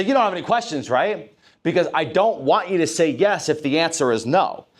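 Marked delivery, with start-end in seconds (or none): 0.0-1.3 leading question. Shown as a demonstration. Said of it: "I'm not gonna say".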